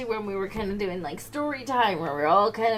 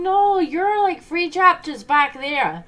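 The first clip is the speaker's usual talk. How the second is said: higher and much louder, slowing down; cheeky retort; 8 semitones higher, 12 dB louder, slower than usual. Retold or imitated. The pupil tells the class it is chapters behind, loud and cheeky. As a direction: talk back with a smug drag. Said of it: "And they're".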